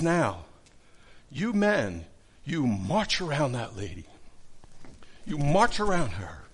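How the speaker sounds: firm, emphatic preacher's command; pastor giving orders. Retold or imitated. Pastor sends men marching around their ladies, commanding. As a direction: lightly imitate a pastor directing the men. Acted pastor instructing couples at church.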